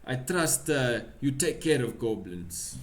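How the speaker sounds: put-on firm Russian accent. Pavlov asking help with goblins, Russian accent. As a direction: entrust the job in a Russian accent. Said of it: "I keep losing the accent".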